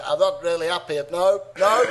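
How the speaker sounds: attempted Liverpool accent, Beatle impression. Podcaster having a go at a Beatle, Liverpool accent. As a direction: do a Scouse Beatle. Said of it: "have a go on a Beatle".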